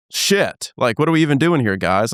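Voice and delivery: snapping at the team in frustration; retold frustrated outburst. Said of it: "I'm stressed. I'm pissed. I'm fuming".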